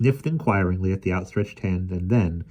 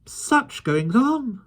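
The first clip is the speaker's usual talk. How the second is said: murmured; much slower than usual. A narrator's reading. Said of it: "murmured Mister Winkle".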